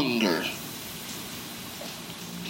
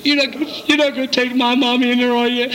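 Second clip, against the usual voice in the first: put-on worried little boy; 6 semitones higher, faster than usual. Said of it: "He says".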